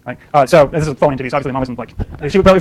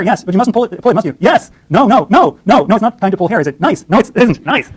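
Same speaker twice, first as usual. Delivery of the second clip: lightly acted back-and-forth, pitched up; mother-toddler exchange; 4 semitones higher, slower than usual. Mom and toddler arguing over pulling hair, lightly mimicked. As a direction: act out a mom correcting her little one, higher voice.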